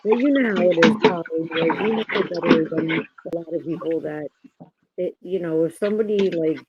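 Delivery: muffled, as if hand over mouth. Real, not acted. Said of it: "It sounds like you're muffled or something".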